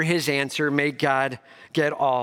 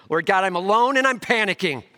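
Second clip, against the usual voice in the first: panicked prayer; 5 semitones higher, 4 dB louder than usual. Pretend. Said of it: "May we not be that person".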